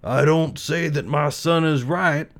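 slow measured father rabbit; Papa Rabbit. Acted. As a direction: weigh it like a fair father. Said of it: "said Papa Rabbit".

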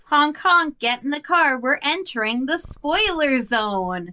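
goofy honking driver bit; silly clown. Pretend. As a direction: play the clown, honk like a car. Silly car ride into spoiler zone.

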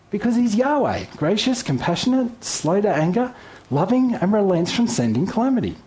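proclaiming. Real, not acted. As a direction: build each attribute with fervour.

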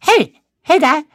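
guy in the next stall peeping in, high mock voice; high squeaky stranger voice. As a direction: call through the stall door in a high, silly voice. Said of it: "he goes like this".

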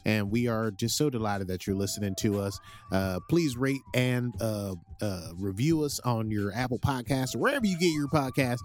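put-on gentle Southern accent reading the show notes. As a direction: keep the folksy Southern host going. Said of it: "how you committed to that accent".

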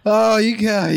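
words breaking into laughter; laughing. Real, not acted. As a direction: try to talk but crack up. Laughs again while talking.

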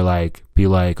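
normal talking voice

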